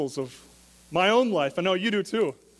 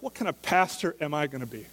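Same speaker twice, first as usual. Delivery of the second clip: mock self-reproach; 5 semitones higher than usual. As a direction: poke fun at yourself, rising to disbelief on the last line. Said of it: "And I'm like".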